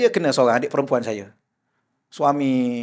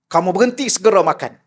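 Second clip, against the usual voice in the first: angry sheikh; 4 dB louder than usual. Retold or imitated. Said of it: "Dia marah".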